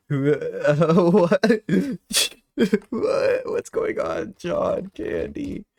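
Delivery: high, laughing what; laughing confusion. Real, not acted. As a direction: giggle through the bewildered questions. Laughing confusion at chat news.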